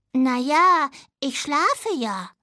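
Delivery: lightly voiced little dormouse; a young dormouse, just a touch brighter; little dormouse child. (leicht verstellte Stimme eines kleinen Siebenschläfers)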